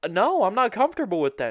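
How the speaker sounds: loud, high, fast protest; acted-out firm objection; retold refusal. Re-enacts refusing the threesome.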